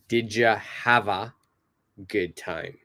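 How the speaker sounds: relaxed native "Did ya have a good time"; native blended question. Shown as a demonstration. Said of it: "sound more like a native".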